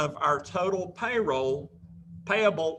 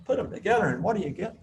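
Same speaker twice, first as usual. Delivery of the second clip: higher, faster peppy cheer call; cheerleader; 4 semitones higher, much faster than usual. Shown as a demonstration. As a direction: pump up the crowd, quick and bright. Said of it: "I sound like a cheerleader".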